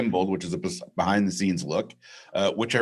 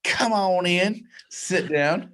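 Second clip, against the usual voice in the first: lightly sing-song welcome, drawn out; welcoming host; 11 semitones higher, much slower than usual. Acted. Host greets listeners with his new catchphrase, lightly sung. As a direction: invite them in like a cheesy host. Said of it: "That's been my new thing lately".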